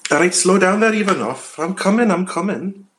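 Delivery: country yokel calling after a friend; country accent. Acted. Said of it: "You go country".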